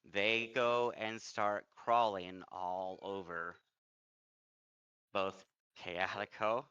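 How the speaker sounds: slow, measured scene setting; game master's narration. Acted. Game master tells players rats crawl over them, slow narration. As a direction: draw the creeping menace out slowly.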